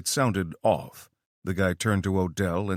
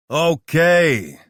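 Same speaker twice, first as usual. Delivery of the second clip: excited; 8 semitones higher, 9 dB louder than usual. Acted. Clapping hands with excitement.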